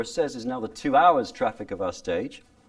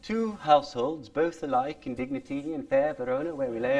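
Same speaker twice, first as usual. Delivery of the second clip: Shakespearean original pronunciation, higher and rounder; 13 semitones higher than usual. Shown as a demonstration. Teacher reciting Romeo and Juliet in original pronunciation. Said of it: "Notice what it did to me?".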